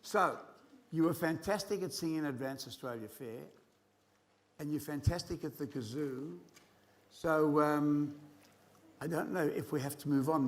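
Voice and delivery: upbeat showman host; animal show trainer. Acted. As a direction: hype up the kids. Hosting the kazoo orchestra kids.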